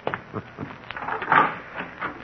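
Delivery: breathy silent chuckle to himself; quiet unvoiced laugh. Man laughs to himself after his brother leaves, quiet chuckle.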